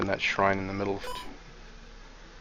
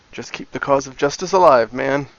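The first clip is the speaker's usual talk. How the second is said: hippie voice; 3 semitones higher, 7 dB louder than usual. Acted. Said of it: "I should do Galford's line in a hippie voice".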